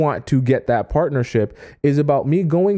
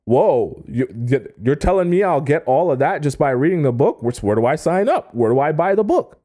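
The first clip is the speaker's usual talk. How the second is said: amazed eager buyer; 2 semitones higher than usual. Retold or imitated. Imitating a buyer wowed by the book's promises, eager. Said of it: "You'll be like".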